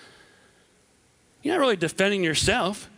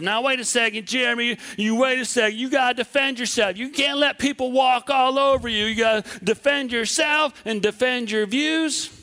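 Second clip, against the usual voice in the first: defensive inner voice; 3 semitones higher than usual. Retold or imitated. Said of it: "not be so defensive".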